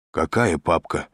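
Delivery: mildly blank, dim query; dull. A narrator's reading. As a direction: ask it slightly obtusely. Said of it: "тупо спросил дежурный". (туповато)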